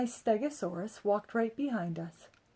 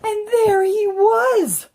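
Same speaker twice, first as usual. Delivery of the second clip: big, slow, high-pitched wonder; a child's astonished cry; excited exclamation; 11 semitones higher, 10 dB louder, slower than usual. A narrator's reading. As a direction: draw it out in amazement. Excited exclamation in read-aloud.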